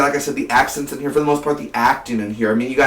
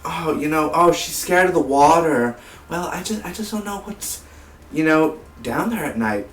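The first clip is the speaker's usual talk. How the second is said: put-on Chris Pine accent; 4 semitones higher than usual. Reviewer imitating Chris Pine's character fretting about the water, attempted accent. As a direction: roughly mimic the film's period accent. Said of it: "the accent that Chris Pine has".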